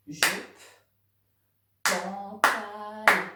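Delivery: pantalon drawn out slowly and loud, each syllable apart; robot syllables. Shown as a demonstration. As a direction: beat out Jupe and pantalon like a robot. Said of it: "cette activité, vous pouvez après la refaire". (Jupe, pantalon, en voix de robot, syllabe par syllabe)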